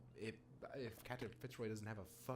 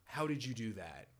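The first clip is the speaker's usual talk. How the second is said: whispering; 5 dB louder than usual. Real, not acted. Startled by a sudden jump.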